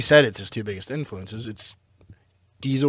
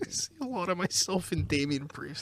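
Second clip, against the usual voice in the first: put-on Carolina accent; 3 semitones higher, 13 dB quieter than usual. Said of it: "How do you like my Carolina accent".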